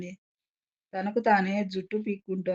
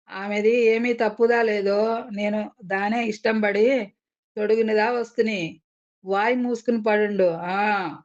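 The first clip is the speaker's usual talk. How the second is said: angry. Acted. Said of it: "అన్నాడు కోపంగా".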